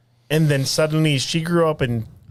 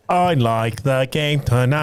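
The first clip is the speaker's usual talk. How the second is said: Stephen Hawking voice; 3 semitones lower, slower than usual. Retold or imitated. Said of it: "a wheelchair guy".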